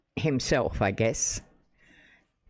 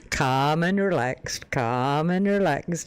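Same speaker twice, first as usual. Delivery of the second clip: slow, stretched-out vowels; imitating streamer's catchphrase; 3 semitones higher, slower than usual. Imitating Dan on his stream, slow drawn-out catchphrase. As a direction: draw the words out in mock soothing. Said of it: "he says".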